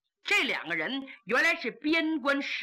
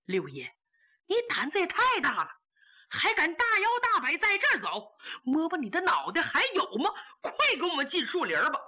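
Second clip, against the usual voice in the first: flustered warning; 4 semitones higher, faster than usual. Acted. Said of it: "两个人慌慌张张地说".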